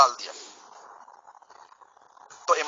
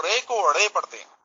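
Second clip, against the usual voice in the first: inner Lahore accent. Shown as a demonstration. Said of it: "اندرون شہر لاہور کا بندہ".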